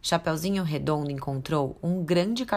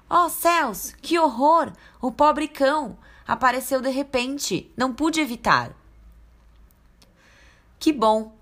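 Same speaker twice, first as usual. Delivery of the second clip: flustered grandma; 7 semitones higher than usual. Acted. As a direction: fret over the poor dog. Grandma after hitting the dog.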